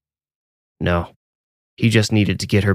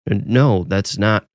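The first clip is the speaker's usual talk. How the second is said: stammering; slower than usual. A narrator's reading. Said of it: "Mitchell stammered".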